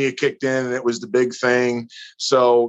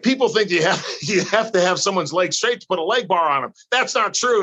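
high-pitched imitated German accent; raised, insistent mock German accent; thick German accent; 6 semitones higher than usual. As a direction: mimic a German wrestler laying down a lesson. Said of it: "he's got this thick German accent".

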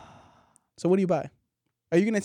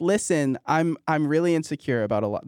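Santa Claus voice; 4 semitones lower than usual. Acted. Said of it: "This is Santa Claus".

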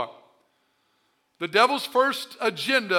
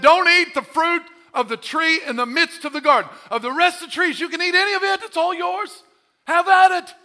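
higher, louder, open-handed; generous God voice; 8 semitones higher, 7 dB louder than usual. Acted. God telling Adam and Eve in the garden, higher generous voice. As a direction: give it away freely, like a generous father. God's command in Eden.

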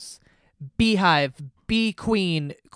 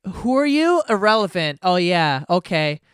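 mocking fangirls; 2 semitones higher, 6 dB louder than usual. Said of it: "they're all like".

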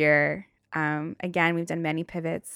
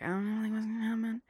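higher, small fretting voice; mock freaked out; 5 semitones higher, 4 dB quieter, faster than usual. Daughter on phone to dad about taxes, mildly freaked out. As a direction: fret lightly in a raised pitch. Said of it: "I was, like, freaked out".

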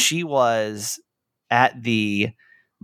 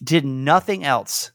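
holding back tears. Real, not acted. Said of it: "I'm gonna try not to cry during this".

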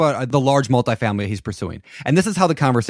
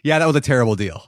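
imitating Ben; 2 semitones higher, faster than usual. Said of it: "Next day he calls me back".

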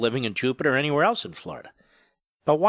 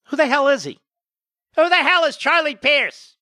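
much higher, louder, mock-outraged; hammed-up disbelief, much higher and louder; indignant shout; 11 semitones higher, 4 dB louder than usual. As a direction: bellow the question in fake outrage. Host mocking a guest.

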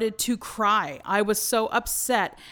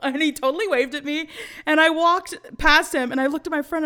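usual speaking voice

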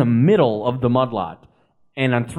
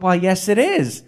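lightly imitated pleased woman, a little higher; pleased hostess; 4 semitones higher than usual. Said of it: "she was so pleased".

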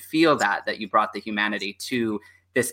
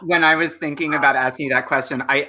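ordinary talk

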